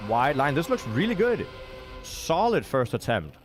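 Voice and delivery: excited commentary. Real, not acted. Caster calling a clean first attempt, excited. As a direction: hype up a good run.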